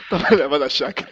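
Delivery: laughing through a mock-innocent echo. Real, not acted. Friend laughs at the storyteller's euphemism, laughing. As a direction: chuckle it out, amused at the cover story.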